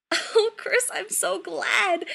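high, drawn-out motherly gushing; gushing delight. A narrator's reading. Mother thrilled about her son's match, gushing. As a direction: gush with delight, lingering on the last word.

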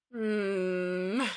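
contented sigh hum; blissful hum. A narrator's reading. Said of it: "Rodney sighed blissfully".

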